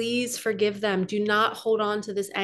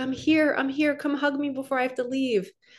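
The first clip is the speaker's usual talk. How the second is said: mock tearful crying voice; 4 semitones higher than usual. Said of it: "to see him cry".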